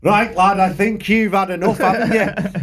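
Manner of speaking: mild Scouse impression; Scouse accent. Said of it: "in his most Scouse way".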